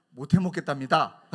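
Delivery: loud laughing snitch; tattling with a laugh. Retold or imitated. Pastor snitching on friend to elder, laughing. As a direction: tell on him, laughing. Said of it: "꼬질렀어요".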